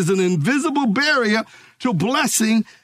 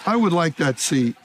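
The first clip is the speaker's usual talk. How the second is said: very calmly; 6 semitones lower, slower than usual. Retold or imitated. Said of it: "I said very calmly".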